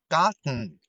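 "garden" slow, British, no r, den swallowed; British "garden", vowel dropped before n; British "garden" with nasal plosion; British accent. Shown as a demonstration. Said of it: "英式英语呢".

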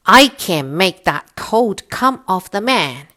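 boastful wind. Acted. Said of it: "said the wind".

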